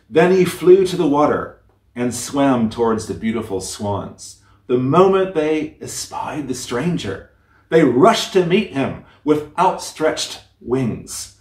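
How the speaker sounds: gentle storyteller reading a classic tale; fairy tale reading. A narrator's reading. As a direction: read it like a bedtime story to listeners. Reads fairy tale aloud.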